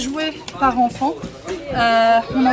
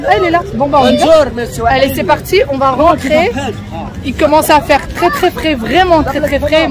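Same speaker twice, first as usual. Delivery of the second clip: shouting over wind; 4 dB louder than usual. Real, not acted. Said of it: "je sais même pas si vous m'entendez avec le vent".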